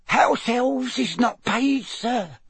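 slow, very high, horrified little voice; muffled elf squeak. A narrator's reading. Horrified house elf corrects Harry, in a muffled squeak. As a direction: squeak it from behind your fingers. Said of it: "she said in a muffled squeak".

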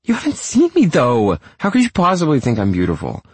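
high-pitched frantic protest; worked-up woman shrieking her doubts; screeching. A narrator's reading. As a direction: spiral into screechy insecurity, question piled on question. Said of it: "She screeches on the other line".

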